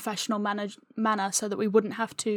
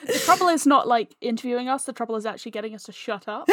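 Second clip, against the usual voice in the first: real laughter through the words, rushed at the end; giggling self-mockery, speeding up; laughing while joking; faster than usual. Real, not acted. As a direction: laugh as you tease yourselves. Joking about talking too much.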